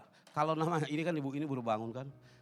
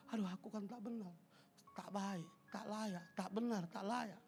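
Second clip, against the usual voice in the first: much softer, mock defeated moan; self-pitying moan; 3 semitones higher, 13 dB quieter than usual. Believer mocked as moaning that they are unworthy, soft and defeated. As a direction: mumble it like a beaten-down believer.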